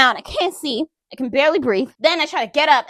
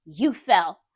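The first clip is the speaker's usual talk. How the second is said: cool, lower dismissive line; calm; 5 semitones lower than usual. Retold or imitated. Ex calmly denying the attack, cold calm. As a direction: say it coolly, like it was nothing. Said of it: "the calmest voice I've ever heard her use".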